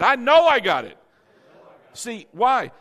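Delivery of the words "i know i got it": loud, sure declaration; confident shout. Shown as a demonstration. Preacher leading the church in the declaration. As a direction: proclaim it with total certainty. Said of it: "Everybody say it like that".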